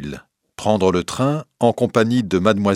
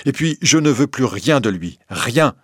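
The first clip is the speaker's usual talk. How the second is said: a touch of heat, slightly raised; sharp lively retort; 4 semitones higher than usual. Acted. Wife rejecting her godfather's legacy, a touch sharp. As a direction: snap the refusal a bit quickly. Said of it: "d'une voix si vive".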